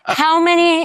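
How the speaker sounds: high, loud incredulous question; astonished. Real, not acted. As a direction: burst out in disbelief. Astonished reaction to band-member trivia.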